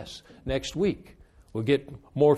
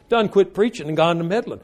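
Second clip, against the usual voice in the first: laughing repeat; 4 semitones higher, 4 dB louder than usual. Retold or imitated.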